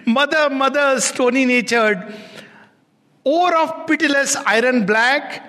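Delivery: a wounded son crying out; son pleading with his mother. Acted. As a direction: reproach a hard-hearted mother. Son's reply in the poem.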